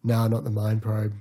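flat, dismissive shrug of a line; can't be bothered anymore; bored. Retold or imitated. Tired actor wanting to go home, bored. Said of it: "he gets bored halfway through saying it".

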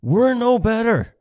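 slow, high, loud scold. Retold or imitated. Repeated scolding line.

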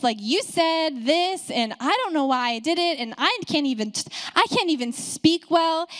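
exasperated, rising whine of a mild complaint; a touch of Moses griping to God; complaining Moses. Retold or imitated. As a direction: whine it like a frustrated man at his wit's end. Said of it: "almost crossed the line of complaining".

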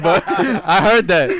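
amused, laughing confession. Real, not acted. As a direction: giggle it out while admitting it. Admits rumor while laughing.

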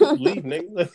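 high, loud blurted answer; laughing outburst; shouted punchline. Real, not acted. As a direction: yell the answer like it's obvious. Answers the lyric's question himself.

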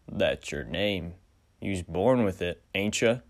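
western stranger drawl. Acted. Stranger replies.

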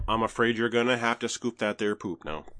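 folksy twang closer to Minnesota; twang accent. Acted. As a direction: put on an upper-Midwest twang. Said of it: "You gotta get, gotta get the twang".

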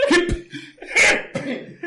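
mock hiccup sounds; drunk with hiccups. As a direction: hic out loud, playful. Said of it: "Y me dio hippie".

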